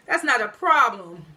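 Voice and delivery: drawn-out, pleased reply through a grin; retold smug grin, slow with a little chuckle; grinning. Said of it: "he grinning".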